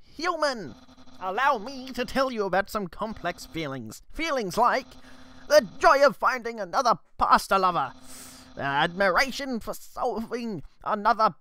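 boastful skeleton, lightly voiced and grand; Papyrus voice. Skeleton guard boasts to the human, lightly voiced. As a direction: puff up like a vain, eager skeleton. Reads Papyrus dialogue aloud.

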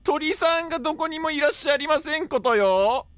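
high, singsong refined-lady voice; ojousama. Pretend. Streamer as refined lady looking for the bird, ojousama voice. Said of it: "Okay, today I'm doing theお嬢".

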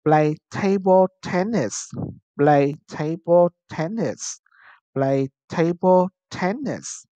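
"Play table tennis" in separate words for repeating; model pronunciation. Shown as a demonstration. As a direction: drill "Play table tennis", TA-ble and TEN-nis stressed first. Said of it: "Now repeat after me". (đọc mẫu "Play table tennis" cho cả lớp lặp lại)

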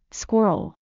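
squirrel said carefully in two parts, skwer-uhl, falling at the end; broken-down pronunciation. Shown as a demonstration. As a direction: break squirrel into its pieces for a learner. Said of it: "It helps to break it down".

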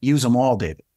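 put-on a touch of Russian accent; Igor's Russian accent. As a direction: lightly imitate a Russian mentor summing up. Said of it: "I'm trying with a Russian accent".

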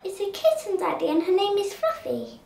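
lightly voiced little girl; child's line. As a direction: say it simply like a kid. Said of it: "that's what a kid would say".

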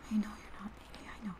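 soft, breathy consoling murmur; tender hush. Acted. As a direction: soothe them very softly. Consoling a hurt loved one.

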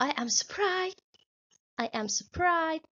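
high, slow and amazed; surprised voice. Shown as a demonstration. Teacher modelling the sentence for pupils, high and astonished. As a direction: sound taken aback, drawing it out.

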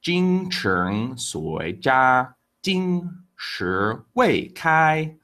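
Jing Cheng Sui Jia, Jing Shi Wei Kai said very slowly, syllable by syllable; slow Chinese idiom. Shown as a demonstration. Teacher modelling the idiom for viewers, very slow and careful. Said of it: "And the idiom today is".

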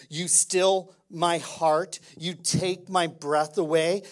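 slow, earnest prayer voice; heartfelt prayer. Acted. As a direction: pray it slowly, from the heart. Leads prayer to Jesus.

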